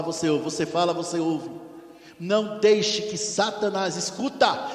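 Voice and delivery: ordinary delivery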